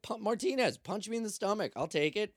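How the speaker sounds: high, insistent acted plea; mock desperate urging. Prisoner begging Martinez for an injury to avoid jail, mock desperate urging.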